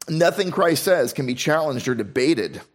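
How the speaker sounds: ordinary talk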